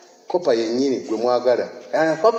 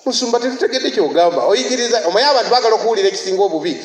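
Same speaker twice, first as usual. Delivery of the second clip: higher, faster complaining churchgoer; mock complaining congregant; 5 semitones higher, 4 dB louder, faster than usual. Pastor voices congregants protesting his teaching, fast and raised. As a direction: rattle off the crowd's objection.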